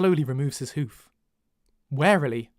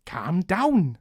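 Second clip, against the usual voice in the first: accidental Welsh lilt; Welsh-sounding "calm down"; Welsh accent; much slower than usual. Shown as a demonstration. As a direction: let the accent slip into Welsh. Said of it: "Now that's gone Welsh".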